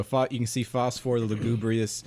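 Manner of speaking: slow, deliberate scene-setting; game master's narration. Acted. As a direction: narrate the hero's action slowly, word by word.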